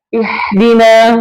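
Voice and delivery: "ihdina" drawn out with a sharp, rasped h; wrong small H. Shown as a demonstration. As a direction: hiss the h of "ihdina" from a tightened throat.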